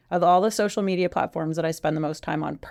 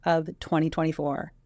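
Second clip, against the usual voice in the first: sultry. Pretend. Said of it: "You sounded very sultry".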